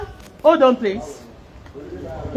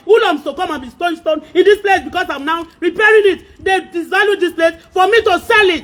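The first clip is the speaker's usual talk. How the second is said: agitated, raised-voice outburst; real exasperated rant; angry complaint. Real, not acted. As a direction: complain heatedly, pressing the grievance. Upset complaint about people destroying house.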